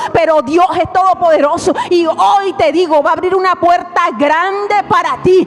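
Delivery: rising, shouting sermon climax; full-force preaching. Acted. Predicación a pleno volumen. (predicación a gritos)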